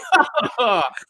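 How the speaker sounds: mock chuckle imitating the hero; put-on laughing noise; imitated movie laugh. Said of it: "like that".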